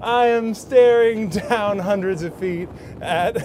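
high, alarmed reaction from the top; terrified but half-laughing; real fear of heights. Real, not acted.

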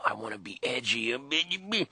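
high, small, soft self-mocking voice; mock eager newbie. Comic mocking his younger self starting out, tiny high voice.

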